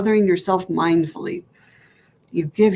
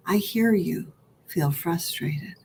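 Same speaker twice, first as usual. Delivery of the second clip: tender echo; 5 dB quieter, slower than usual. Pretend. Higher self echoes back.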